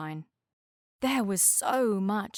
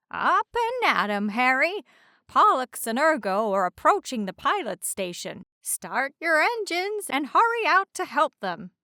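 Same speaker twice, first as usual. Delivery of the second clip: louder, higher wake-up call; calling out to wake him; 5 semitones higher, 6 dB louder than usual. A narrator's reading. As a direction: rouse a sleeper with a shout. Lighthouse wakes sleeping hydrocopter.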